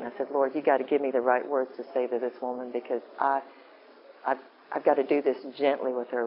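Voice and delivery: ordinary talk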